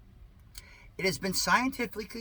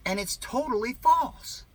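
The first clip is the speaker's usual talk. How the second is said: mock emphatic; 10 semitones higher, 5 dB louder than usual.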